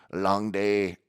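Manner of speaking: light, weary Irish quip; imitated Irish accent. Pet cremator on his work, light Irish accent. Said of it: "he went Irish".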